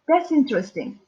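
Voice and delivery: "that's interesting" with pitch falling at the end. Shown as a demonstration. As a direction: let "interesting" fall away at the close. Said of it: "It's a falling tone".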